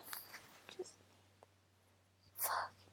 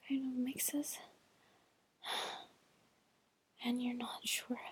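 whispering. Real, not acted. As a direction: whisper it, sighing between phrases. Long sultry whispered monologue.

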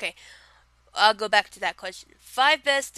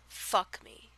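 growled; 7 dB quieter than usual. Shown as a demonstration. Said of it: "I kinda growled when I said that".

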